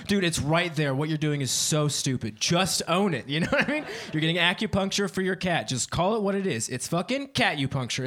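mildly exasperated comic rant; unreasonable anger. Retold or imitated. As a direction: argue the point in mock outrage. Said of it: "Like I said, unreasonably angry".

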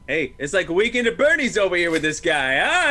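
brash New York guy ribbing a buddy; New York accent. Retold or imitated. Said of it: "that's a spot-on New York accent".

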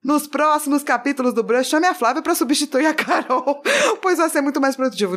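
half-hearted stage-actor reading, slowed; dramatic reading. Pretend. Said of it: "quer que eu leia com uma voz dramática".

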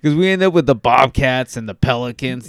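loud exasperated rant; mock tirade at old people naming teams; half-acted loud complaint; retold rant. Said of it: "And I was like".

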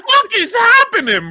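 high, loud, drawn-out mock outrage; retold disbelief. Telling co-hosts his reaction to the show, retold disbelief. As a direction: stretch it out in exaggerated disbelief.

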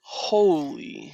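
breathy, whispered amazement; stunned disbelief. Real, not acted. Stunned by six-month lockout.

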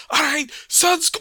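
high, loud pirate dwarf call; rally them as a dwarven pirate; pirate dwarven accent. Acted. Pirate rallying the crew just before he is hit, loud pirate dwarven accent. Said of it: "He's like".

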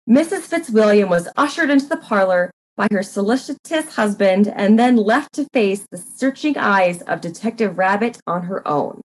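even, measured storyteller voice; story narration. A narrator's reading. Narrator setting up the parlor scene, measured and even. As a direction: read it like a mystery narrator.

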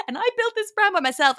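intense high-pitched impression; a mock dramatic boast, pitched right up; Bethany. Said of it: "Bethany was so intense".

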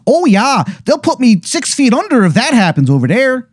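high, hammed-up Wisconsin accent; bad Wisconsin accent. Wizard warns the player about doom in a bad Wisconsin accent. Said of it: "he basically goes".

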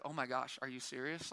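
mock shocked listener. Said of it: "And you're like".

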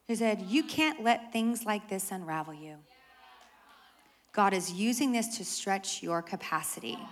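soft, patient pastor voice; calm. Retold or imitated. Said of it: "she responds very calmly".

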